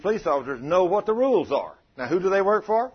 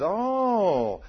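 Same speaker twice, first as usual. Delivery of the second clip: high, slow, gloating devil voice, savoring the catch; 9 semitones higher, 4 dB louder, slower than usual. Acted. Preacher voicing the devil spotting a sinner, high and gloating. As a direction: purr it like a devil who found his prey. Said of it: "he looks and he says".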